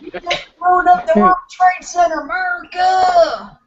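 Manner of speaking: mock hick shout. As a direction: bellow it like an angry hick. Mocking hick yelling at foreigner.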